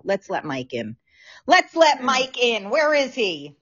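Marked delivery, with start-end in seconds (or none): 0.1-1.0 low, soft mutter to herself; muttered aside. Real, not acted. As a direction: say it under your breath. Muttering to herself while admitting Mike.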